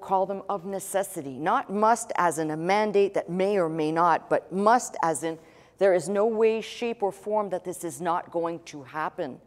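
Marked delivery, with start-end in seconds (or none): 5.8-9.4 NO WAY, SHAPE, OR FORM given firm emphasis; emphatic stress. Shown as a demonstration. Preacher defining must as absolute necessity, emphatic. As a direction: lean on each of "no way, shape, or form". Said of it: "So you get that emphasis".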